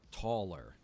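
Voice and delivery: usual speaking voice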